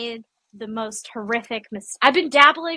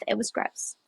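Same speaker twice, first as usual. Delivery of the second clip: whispered gross; 2 semitones lower, 10 dB quieter than usual. Real, not acted. Disgusted about the dial.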